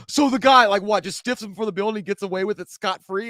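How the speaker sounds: high, loud disbelief; incredulous character voice. Retold or imitated. Friend quoting the diner scene, high and incredulous. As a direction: ask it in shocked disbelief. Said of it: "he was like".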